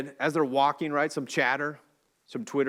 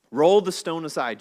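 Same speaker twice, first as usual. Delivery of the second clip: commanding; 4 semitones higher, 7 dB louder than usual. Retold or imitated. Jesus commands at the tomb.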